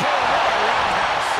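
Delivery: loud, punchy hype on boom; excited call. Real, not acted. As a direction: hit boom hard with excitement. Commentator calls a big kick.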